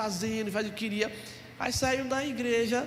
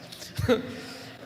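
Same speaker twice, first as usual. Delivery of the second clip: laughing. Real, not acted. Laughs at his own joke.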